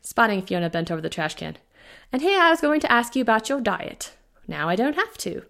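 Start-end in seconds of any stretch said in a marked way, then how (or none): 2.1-5.5 lightly voiced British accent, brisk and amused; a hint of a cheery British doctor; doctor teasing her sick patient, light British accent. A narrator's reading. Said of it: "a delightful British accent".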